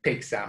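"Pizza" said low as PEET-sa; pronunciation with T sound. Shown as a demonstration. Teacher repeating for students, "Pizza" with a T sound. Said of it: "be careful with that pronunciation".

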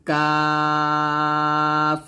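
কাফ drawn out thin and light; light kaf. Shown as a demonstration. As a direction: keep কাফ thin, stretched slow. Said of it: "এভাবে". (কাফ পাতলা করে)

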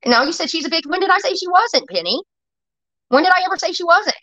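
indignant, high-pitched self-defense; irritated. Real, not acted. Streamer disputing what Penny claims was said, irritated. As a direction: challenge the accusation, exasperated. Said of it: "I'm getting irritated with this".

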